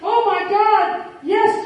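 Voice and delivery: high, drawn-out amazed cry; overwhelmed high-pitched exclamation. A narrator's reading. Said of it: "Janie cried out".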